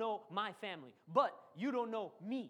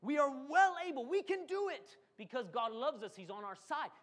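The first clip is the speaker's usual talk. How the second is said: voice of faith; 3 semitones higher, 3 dB louder than usual. Retold or imitated. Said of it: "That's how faith talks".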